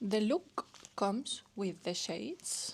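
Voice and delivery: slow, drawn-out meme quote; a singer's meme. Acted. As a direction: stretch the English words for effect. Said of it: "es un meme de una cantante".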